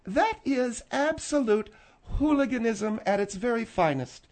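scornful, deliberate pronouncement; sarcastic. Acted. Woman scolds Phil over his hooliganism, sarcastic. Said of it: "And I say that sarcastically".

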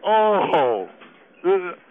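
talking with mouth full; words around a mouthful. Acted. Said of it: "impolite to talk with your mouth full".

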